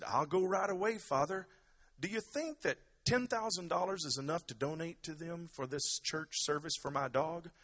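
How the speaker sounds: high, loud Irish countryman voice; Muldoon. Acted. Dog owner asks priest about donation, countryman voice. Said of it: "Muldoon said".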